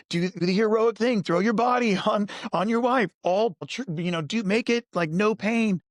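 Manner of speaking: high, hammed-up heroic call; mocking the hero men are told to be; mock movie hero. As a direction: parody the action-movie voice. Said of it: "you know, from movies and on".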